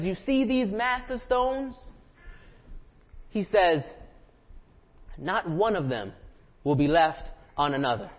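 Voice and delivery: lightly voiced Jesus warning gravely; solemn Jesus.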